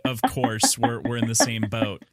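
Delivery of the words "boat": "boat" with long rounded Minnesotan o; Minnesotan accent. Real, not acted. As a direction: Minnesota "boat", drawn-out oh vowel. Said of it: "As I say, boat in the most Minnesotan accent ever".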